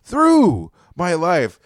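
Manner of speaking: drawn-out, very slow phrase; slow emphasis. Real, not acted. Complaining to friends about being harassed, very slow emphatic. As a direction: stretch each word out for weight.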